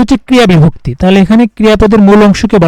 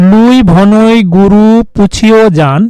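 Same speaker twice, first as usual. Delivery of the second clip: recited verse; much slower than usual. Shown as a demonstration. Reading a Charyapada verse line.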